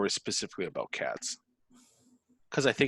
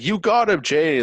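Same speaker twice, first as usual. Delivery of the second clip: much higher and louder mock shout; excited mock yell; 8 semitones higher, 12 dB louder than usual. Fan acting out a manga panel, high excited mock yell. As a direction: yell it like a manga character pouncing.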